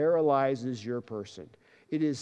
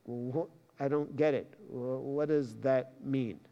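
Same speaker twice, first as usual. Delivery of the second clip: puzzled listener; 3 semitones lower, 5 dB quieter than usual. Pretend. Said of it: "You're like".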